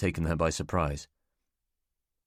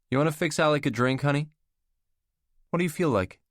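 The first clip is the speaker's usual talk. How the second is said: woman's voice; 8 semitones higher, 3 dB louder than usual. Acted. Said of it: "Catherine hosting".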